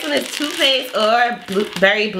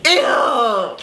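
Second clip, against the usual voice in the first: disgusted shout; 3 semitones higher than usual. Real, not acted. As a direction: yell it in disgust. Just ate canned dog food.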